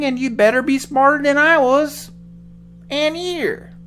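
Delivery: put-on high, loud, slow old man.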